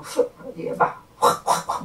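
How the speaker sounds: breathy bursts of mock heaving; imitated retching. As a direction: huff out sharp airy retching noises. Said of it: "막 토하라는 거예요".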